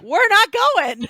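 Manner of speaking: loud, slow, high flat no; emphatic refusal. Real, not acted. To her co-host about the trip, a loud slow refusal. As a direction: plant your feet and refuse outright.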